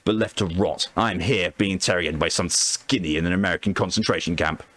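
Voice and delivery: lightly voiced embittered soldier; bitter captive officer. Captured major telling interrogator of his dead men, understated bitterness. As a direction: grieve the fallen men with restrained resentment.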